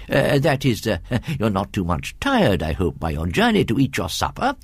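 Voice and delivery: lightly voiced dithering gentleman; a hint of absent-minded politeness; fussy, hesitant host. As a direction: stumble kindly into polite concern. Voices Mister Abney in story.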